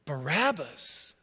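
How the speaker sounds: loud crowd chant, slowing on the name; crowd shouting. Retold or imitated. Retelling the crowd's cry for Barabbas, loud chant. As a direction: hammer out the name like an angry mob. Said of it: "they all cried out".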